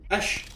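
"Ish" ending in a hushing sh; "Ish" pronunciation. Shown as a demonstration. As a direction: say "Ish", not a hard ick. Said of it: "ick is pronounced ish".

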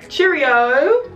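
loud, high excited squeal. Shown as a demonstration. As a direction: shout the name with delight.

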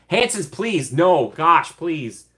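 high, flustered begging to stop; overwhelmed pleading. Real, not acted. Streamer to generous viewers, overwhelmed and pleading. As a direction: protest the donation, touched and flustered. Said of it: "you're gonna make me cry".

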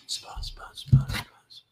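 rapid whispered mumble of prayer; mock absent-minded whispering; careless dhikr. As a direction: imitate someone whispering dhikr on autopilot. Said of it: "kolla hur vi gör dhikr ibland".

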